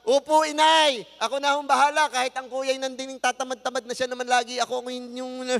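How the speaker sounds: loud, high, sarcastic sass; a child's loud insolent answer to mother; talking back. Shown as a demonstration. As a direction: snap back at mother, resentful. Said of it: "Ano ang pabalang?".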